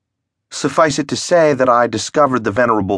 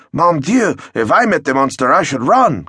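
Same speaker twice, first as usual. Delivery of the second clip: higher, panicky admission; frightened villager; 6 semitones higher than usual. Acted. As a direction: blurt it out scared. Villager admits fear.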